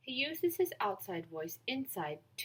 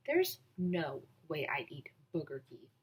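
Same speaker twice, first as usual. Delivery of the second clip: mocking whisper; 5 semitones lower than usual. The speaker mocks the food.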